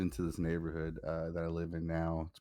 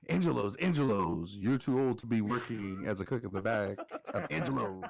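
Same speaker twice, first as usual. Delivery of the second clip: mock comeback; 4 semitones higher than usual. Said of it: "You go".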